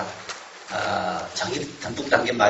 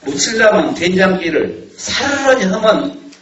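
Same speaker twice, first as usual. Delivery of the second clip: Jeolla dialect; 3 semitones higher, 3 dB louder than usual. Retold or imitated. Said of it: "그렇게 말합니다".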